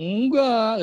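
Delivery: high, loud, coy voice while grinning.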